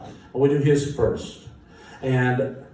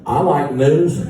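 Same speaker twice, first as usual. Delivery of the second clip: louder, measured "I like news"; quote from a singer; 3 semitones higher, 8 dB louder, slower than usual. Retold or imitated. Musician imitating a singer saying he likes news. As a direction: quote the singer's odd formal line. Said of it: "Who says that?".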